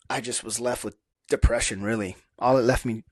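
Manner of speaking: talking through hiccups; hiccuping between words. Real, not acted. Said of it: "I got the hiccups, by the way, if you hear me".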